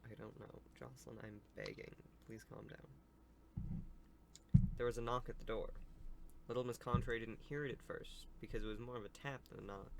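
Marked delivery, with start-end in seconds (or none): 4.8-9.9 storybook read-aloud; story narration. Acted. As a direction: read the tale out to young listeners.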